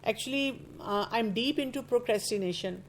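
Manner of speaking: slow, offhand imitation of a carefree youngster; casual lazy confession. A youngster shrugging off her laziness, slow and offhand. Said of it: "ہر youngster بڑے آرام سے کہتا ہے".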